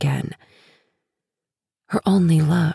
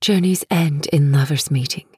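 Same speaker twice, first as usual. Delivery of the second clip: flat. Acted. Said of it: "She says the words flatly".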